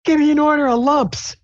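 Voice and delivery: very high, squeaky character ordering. Acted. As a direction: pitch way up for a cartoonish customer. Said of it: "she's like".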